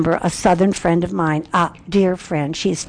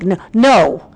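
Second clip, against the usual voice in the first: louder, abrupt refusal; brisk no; 6 dB louder than usual. Retold or imitated. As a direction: finally put your foot down briskly. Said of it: "no in a brisk way".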